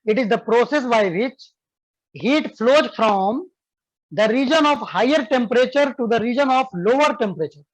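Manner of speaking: slow, clear dictation for students to write. Shown as a demonstration. Teacher dictating a definition to students, slow and clear. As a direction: spell it out slowly so they can copy. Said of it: "देखो बाबू".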